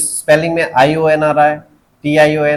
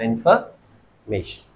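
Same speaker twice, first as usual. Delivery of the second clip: इन्फॉर्मेशन slow, lower and softer, split before "may"; stress on MAY; 6 semitones lower, 6 dB quieter, much slower than usual. Shown as a demonstration. Teacher applies the suffix rule, इन्फॉर्मेशन with separated stressed "MAY". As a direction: say इन्फॉर्मेशन slowly as "in-fer... MAY-shun". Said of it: "उस पे हमको stress लगाना है".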